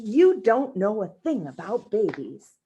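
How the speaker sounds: lightly voiced stern mother; scolding mother. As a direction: scold the sitter firmly. Missus Lane scolding.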